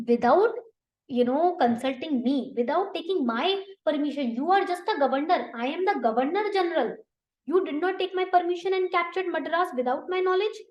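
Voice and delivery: indignant boss asking who allowed this; angry Dupleix. Acted. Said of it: "Dupleix got angry".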